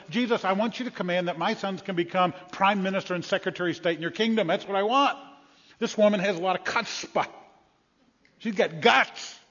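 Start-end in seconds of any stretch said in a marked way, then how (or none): 0.1-5.2 hammed-up demanding mother, raised; mother pushing her sons forward; pushy mother. Preacher voices pushy mother. 8.4-9.4 guts drawn out slowly; slow emphatic aside. Real, not acted.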